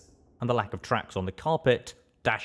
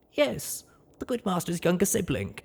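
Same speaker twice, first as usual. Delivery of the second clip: maid character voice; 10 semitones higher than usual. Acted. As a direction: tell it as the loyal ghoul maid. Maid answers.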